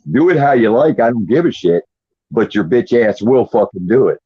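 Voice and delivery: angry mock address to the federal government; defiant rant. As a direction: tell the court off. Ranting at federal courts.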